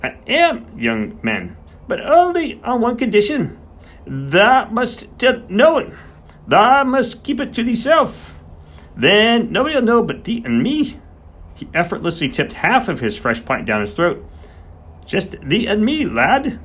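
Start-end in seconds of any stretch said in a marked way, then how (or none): 0.0-11.0 put-on high, loud, slow voice of an old countryman swearing him to secrecy; old Yorkshire farmer, secretive. 15.1-16.6 put-on old Yorkshire farmer, secretive.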